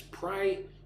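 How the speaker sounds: "Prioritize" broken into four separate syllables. Shown as a demonstration. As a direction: say "Prioritize" as pri, or, i, tize with gaps. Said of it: "Four syllables".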